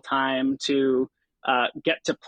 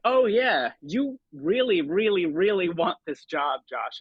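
a higher, eager pep talk to himself; excited self-talk; 4 semitones higher, slower than usual. Retold or imitated. After the documentary, telling himself he wants it, higher and eager. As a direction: lift it up as the realization hits. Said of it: "it was at that moment I was like".

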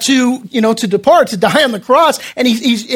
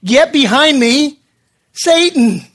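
firm retold command, pause before "Satan"; measured, emphatic rebuke; 2 semitones higher than usual. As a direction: order him back, then name him deliberately. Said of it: "he rebukes Peter".

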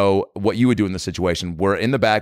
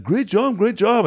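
high-pitched caricature of a British guy; imitating a singer; 11 semitones higher, slower than usual. Retold or imitated. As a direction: praise in a high mock-British voice. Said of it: "a caricature of a, of a British guy".

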